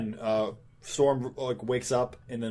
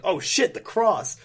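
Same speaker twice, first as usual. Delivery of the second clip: weak Dracula voice; 7 semitones higher, 3 dB louder, slower than usual. Retold or imitated. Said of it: "you have to work on your Dracula voice".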